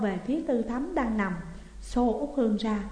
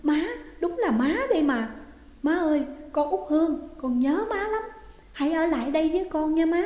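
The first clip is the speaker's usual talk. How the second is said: much higher, tearful joyful cry; overjoyed; 6 semitones higher than usual. A narrator's reading. Daughter crying out to her returned mother, overjoyed. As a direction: pour out joy at finding mother. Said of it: "Út Hương mừng không xiết".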